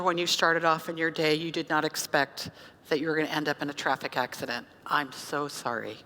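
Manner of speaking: low, softening words of sympathy; sympathetic apology. Retold or imitated. Acted apology to crash victim.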